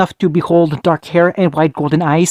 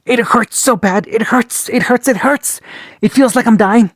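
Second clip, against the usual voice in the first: each "It hurts" climbing higher, more desperate; pained cries; 5 semitones higher than usual. Acted. Dying fighter cries out, pain climbing higher each time. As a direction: whimper through mounting pain.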